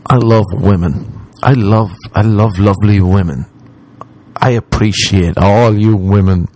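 putting on sincerity, unhurried; mock sincere. Creepy nice guy addressing the ladies, fake sincere. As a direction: play the creep faking heartfelt appreciation. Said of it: "been trying to be sincere".

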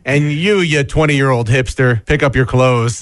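a hint of a scolding dad; mild mock telling-off; scolding dad impression. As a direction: lightly imitate a dad giving orders. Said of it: "I love doing an impression of you".

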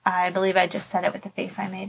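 said softly, not into the microphone; quiet, away from mic. Real, not acted. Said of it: "You also have to talk into the microphone".

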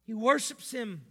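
loud, rising on "worships"; "worships" hit hard and loud; emphatic preaching. Real, not acted.

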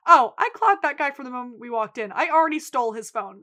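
quick, punchy mock bragging; retold brisk boast. V telling Fiona she already robbed him, brisk boast. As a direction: rattle it off briskly. Acted boast about stolen phone.

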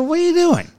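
high-pitched, exasperated parent; mock-appalled question, pitched well up; retold exasperation. Dad questioning his kid's vacation idea, exasperated.

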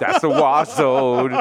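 mock announcer. Joking about warranty boxes, deep slow trailer voice.

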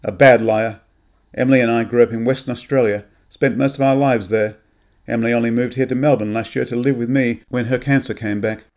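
grim accusation. Acted. Anne exposes Graham's lie, grim and loud. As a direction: she calls him out and demands the truth. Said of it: "she said grimly".

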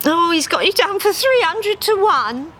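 high, sheepish admission; confessing. Acted. Harry confessing the long odds, mildly sheepish. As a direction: own up reluctantly. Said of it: "Harry confessed".

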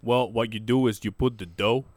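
lightly imitated fighter's accent; Francis Ngannou accent. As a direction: explain a recipe in a put-on foreign accent. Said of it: "Tell me, in his accent".

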